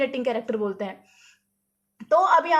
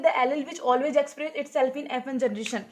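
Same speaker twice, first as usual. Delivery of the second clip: slow dictation pace; much slower than usual. Shown as a demonstration. Teacher reading out a definition.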